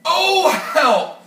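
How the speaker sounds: loud, high, breathless with laughing; can barely get the words out; helpless laughter. Acted. Rhino overcome with laughter.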